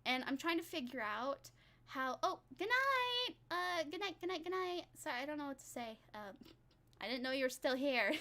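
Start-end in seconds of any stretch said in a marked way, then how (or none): 2.2-4.8 surprised. Real, not acted. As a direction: caught off guard, call it out. Surprised to find viewer still there.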